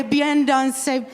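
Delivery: "Bien dansé" slow, with a nasal French vowel; French pronunciation. Shown as a demonstration. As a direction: model "Bien dansé" for the crowd. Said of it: "shirts upstairs that say".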